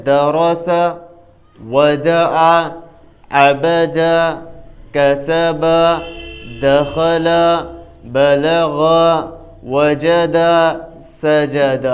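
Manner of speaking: each word like "درس" read joined as three open-a syllables, da-ra-sa, with pauses between words; rawan, joined reading. Shown as a demonstration. Teacher showing rawan after spelling, joined syllables as in "سجد", sa-ja-da. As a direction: run the syllables together, "وجد" as wa-ja-da, then pause. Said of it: "رواں کس سے کہیں گے".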